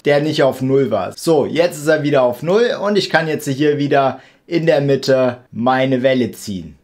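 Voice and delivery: ordinary delivery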